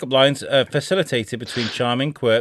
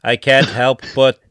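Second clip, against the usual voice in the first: stupid AI voice; 4 dB louder, slower than usual. Acted. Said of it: "read these out in these stupid voices".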